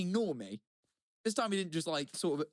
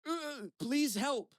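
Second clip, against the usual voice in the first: higher, drawn-out mock plea; imitated plea for help; 10 semitones higher, much slower than usual. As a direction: mimic a struggling man slowly begging. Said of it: "And then he just goes".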